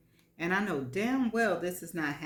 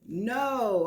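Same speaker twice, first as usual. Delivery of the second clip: louder quick yell of no; 5 semitones higher, 5 dB louder than usual. A narrator's reading. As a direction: cut him off with a sharp no. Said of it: "I yell".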